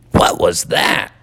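whispered puzzled question; wondering. Acted. Froggy hearing a strange voice, whispered puzzled question. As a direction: ask it under your breath. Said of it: "wondered Froggy".

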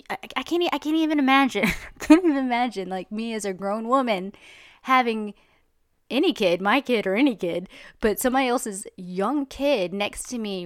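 real outrage spilling into a laugh; indignant outburst. Real, not acted.

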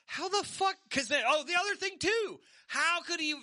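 getting worked up and yelling at the mic. Real, not acted. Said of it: "Hey, you're yelling".

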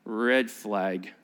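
low, knowing mutter of red flag; suspicious warning. Retold or imitated. Congregation sensing the trap, low and wary. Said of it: "how many of you are going".

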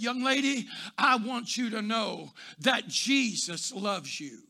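gentle assurance. Retold or imitated. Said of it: "I didn't change the inflection of my voice".

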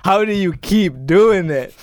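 high, loud, stretched-out disbelief; retold amazement. Friend reacting to a rap bar, amazed and drawn-out. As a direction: marvel at it, drawing words out. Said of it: "I was like".

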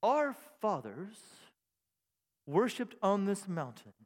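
lightly theologian. Shown as a demonstration. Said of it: "she becomes a theologian here".

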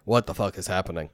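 low, quiet aside; baffled, dropped well below the outburst; muted bafflement. Retold or imitated. Player reacting to the diva's outburst, quietly baffled.

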